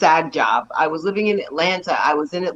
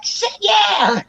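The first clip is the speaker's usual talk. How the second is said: retold reply. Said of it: "I'm like".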